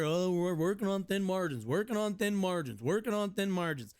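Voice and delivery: singsong parody of a tired excuse; mocking imitation. Food worker mimicking restaurant owners' thin-margins excuse, mocking. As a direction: repeat it in a mocking, swooping loop.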